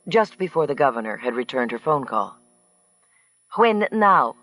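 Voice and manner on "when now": higher, louder bright question; cheerful. A narrator's reading. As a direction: chirp it to her trainer. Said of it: "she cheerfully asked her trainer".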